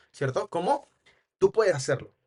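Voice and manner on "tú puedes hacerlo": "Tú puedes hacerlo" with a falling, cut-off ending; command intonation. Shown as a demonstration. Trainer demonstrates an order, "Tú puedes hacerlo" ending downward. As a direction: make "Tú puedes hacerlo" an order, tune going down. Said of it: "lo hacemos hacia abajo".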